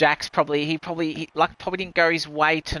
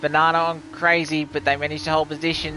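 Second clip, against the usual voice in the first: excited commentator; 4 semitones higher, 4 dB louder than usual. Real, not acted. Live race finish, dive bomb.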